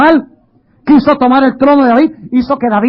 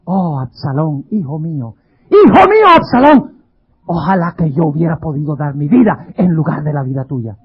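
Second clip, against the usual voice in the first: tearful lament; 6 semitones lower than usual. Retold or imitated. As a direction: grieve for your lost son. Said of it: "con lágrimas en su ojo". (lamento del padre David, con lágrimas)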